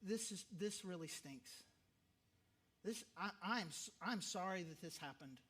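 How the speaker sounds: soft, quiet words of comfort; gentle condolence. Shown as a demonstration. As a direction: tell the grieving person gently that it stinks. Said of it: "you just say to whatever level".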